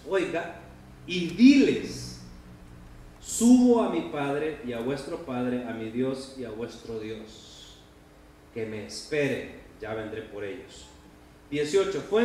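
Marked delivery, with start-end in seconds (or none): 1.1-10.9 solemn tender. Acted. Jesus's solemn message.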